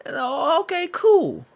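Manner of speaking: high, loud laughing repeat; laughing mock replay. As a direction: crack up while echoing the story. Friend mocks the quote, laughing.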